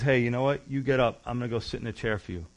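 lightly voiced innocent stranger offering help; gentle offer. Innocent man offers his place.

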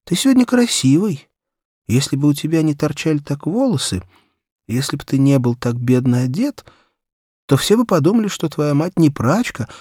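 put-on a touch of a boy kindly patronising his friend; boy's cheerful speech. A narrator's reading. Говорю ему. (мальчик снисходительно хвалит Митьку, чуть выше и громче)

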